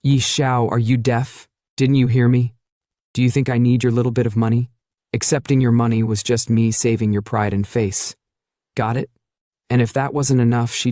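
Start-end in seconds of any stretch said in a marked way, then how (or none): 0.0-9.1 lightly voiced scornful scoff; dismissive, sneering put-down. Qin Yanran belittles Ye Xiao, mild scornful scoff. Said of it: "She scoffs".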